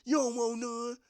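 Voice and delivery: high, loud taunt; student challenging teacher at the chalkboard; taunting kid. Retold or imitated. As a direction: push the teacher and dare him. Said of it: "pushing them like".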